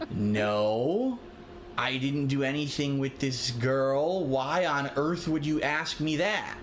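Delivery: slow, drawn-out innocent denial; slow mock-innocent denial. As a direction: act wide-eyed innocent, slowly. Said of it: "'Cause you answer it like that".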